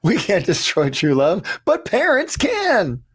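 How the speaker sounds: high, slow alien parent voice. Retold or imitated. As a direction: deliver it like a grave alien parent. Repeats the alien parents' line.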